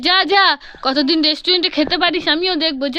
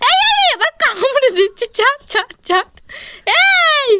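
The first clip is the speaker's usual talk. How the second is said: 1 urgent stop; 9 semitones higher than usual. Acted. Brother biting, mother shouts stop.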